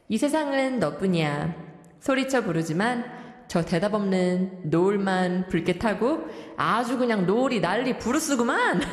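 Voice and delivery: lightly hammed-up corny lyric reading; dated character reciting, then commenting drolly; old-fashioned 늘크크 teacher. Radio host as 늘크크 rereads lyrics, lightly voiced corny old-timer. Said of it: "늘크크 선생님 joining us in the studio reading out".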